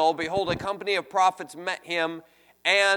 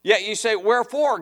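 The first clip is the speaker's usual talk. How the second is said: higher, louder mock protest; imitated crying out; 3 semitones higher, 4 dB louder, faster than usual. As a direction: cry it out like an imitated complaint. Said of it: "They're crying out".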